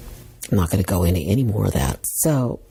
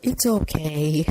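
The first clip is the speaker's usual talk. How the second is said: polite cover-up; 10 semitones higher, slower than usual. Retold or imitated. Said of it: "And instead I said".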